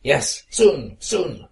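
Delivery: laughing. Acted. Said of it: "laughed the red roses".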